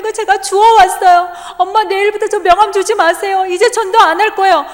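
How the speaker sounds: put-on high, loud tearful child voice; crying son. Son tells his mother the cards were thrown away, crying. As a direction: plead like a hurt little boy. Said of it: "요한이가 막 울면서 그러는 거예요".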